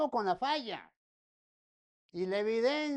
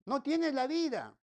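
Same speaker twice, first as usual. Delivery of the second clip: "No tienes la vida" said louder, hitting "tienes" hard; louder warning; 4 semitones higher, 5 dB louder than usual. Acted. Preacher warning listeners without Christ, louder. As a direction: repeat "No tienes la vida" with force.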